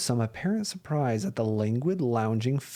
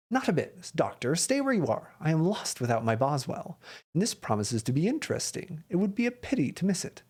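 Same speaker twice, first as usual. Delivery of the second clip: higher-pitched, brisk detective reading; lightly voiced Holmes; 3 semitones higher than usual. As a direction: urge a friend to stay, voice lifted.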